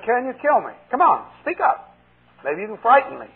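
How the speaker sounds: preacher taunting the demon, challenging. Retold or imitated. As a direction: dare him to speak up.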